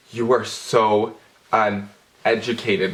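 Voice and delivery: slow, drawn-out put-down; condescending. Retold or imitated. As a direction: spell out his ignorance slowly. Condescending to the guy.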